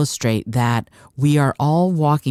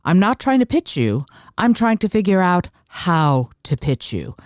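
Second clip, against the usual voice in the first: model pitch line; 4 semitones higher than usual. Shown as a demonstration. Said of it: "say this".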